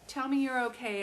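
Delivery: put-on pleading with an old friend who won't speak on the phone; urgent pleading. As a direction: coax him to just answer. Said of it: "And I'm like".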